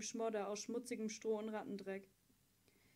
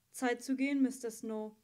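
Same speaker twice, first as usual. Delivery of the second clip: louder call across the room; a guard calls time on the visit, loud; 4 dB louder than usual. Acted. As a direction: call him away, firm and loud. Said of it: "rief der Friedenswächter".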